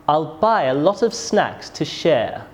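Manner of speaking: "share" falling at the end; falling statement intonation. Shown as a demonstration. Teacher demonstrates a statement, falling tone on "share". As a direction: let the voice drop on "share". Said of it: "My voice goes down at the end".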